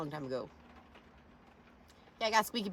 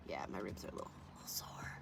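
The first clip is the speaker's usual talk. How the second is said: very low, soft aside; hushed, downplayed admission; quiet understatement; 10 semitones lower, 13 dB quieter than usual. Real, not acted. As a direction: let it drop almost to nothing. Understating injury, voice drops.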